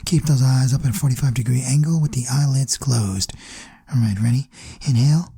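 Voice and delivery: low, measured meditation guide; guided meditation. Acted. Meditation leader keeping listeners' eyelids closed, guided meditation voice.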